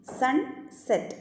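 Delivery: സൺസെറ്റ് drawn out slowly, split between ന് and സ്; syllable by syllable. Shown as a demonstration. Teacher showing the syllable break in സൺസെറ്റ്, slow. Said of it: "syllable division mark ചെയ്യുന്നത്".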